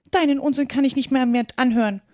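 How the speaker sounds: a touch of indignation as if walking off; lightly voiced huffy mouse. Mouse leaves Alice, mildly fed up.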